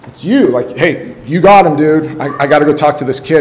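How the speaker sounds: put-on hurriedly dump the kids on a colleague; excited shout to a fellow coach; urgent handoff.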